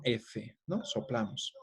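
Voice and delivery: "F" blown out, soft and airy; blowing the F. Shown as a demonstration. Teacher showing the aspirated sound to students, breathy demo. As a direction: push air through "F" like blowing. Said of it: "Aspirada es como soplando".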